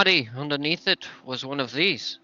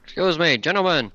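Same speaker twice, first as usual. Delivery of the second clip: calling out; 4 semitones higher, 4 dB louder than usual. Acted. Calling across to the loggers, louder. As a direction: Excuse louder and a bit higher to carry. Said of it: "As you call out".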